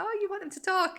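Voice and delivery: mock eager parent. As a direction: play the over-keen parent.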